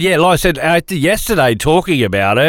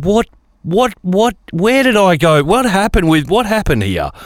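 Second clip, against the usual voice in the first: mock shock; 5 semitones higher than usual. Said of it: "I'm like".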